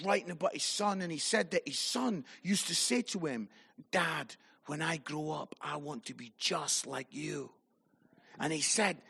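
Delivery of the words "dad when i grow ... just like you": soft, low, sincere quote; retold admiring son. Son saying to his dad he wants to be like him, soft. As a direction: say it gently as a devoted child. Voices an admiring son's words.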